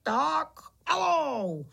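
high, drawn-out go signal; starting command. A narrator's reading. Pytlík sends the beetle team off, calling high and slow. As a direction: stretch it out to set them running.

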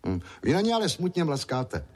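put-on a small boy, curious; boy noticing the sad clicking; little boy voice. A narrator's reading. Boy Ondroušek speaks.

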